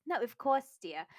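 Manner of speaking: put-on posh English student; English accent. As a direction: talk haughtily in an English accent. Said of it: "English pride?".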